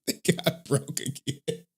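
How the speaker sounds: stunned, slow repeat of the bad news; slow disbelief. Real, not acted. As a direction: let it sink in, drawn out.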